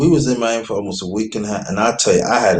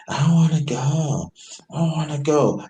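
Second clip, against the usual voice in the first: retold refusal; 2 semitones higher than usual. Arguing over leaving Miami, mildly sulky refusal. Retelling ex refusing, against his plea.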